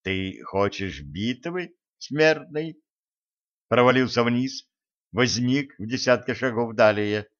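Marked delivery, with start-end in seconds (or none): 0.0-2.8 hushed sinister taunt rising at the end; mock the foe like a gloating villain; mustache twirling villain. Spirit mocks the elder.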